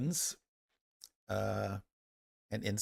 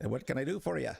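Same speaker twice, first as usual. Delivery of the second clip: higher-pitched smith with a hint of Irish; attempted Irish accent; 4 semitones higher, faster than usual. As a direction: ask like an Irish village smith. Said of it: "Irish accent would probably be".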